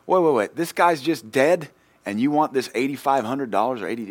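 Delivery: mock yell at the debt collector; retold yelling. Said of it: "yelling at this Yankee".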